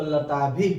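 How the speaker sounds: लताभि ending in a light breathy visarga after the i; लताभिः विसर्ग के साथ. Shown as a demonstration. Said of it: "इसमें विसर्ग है".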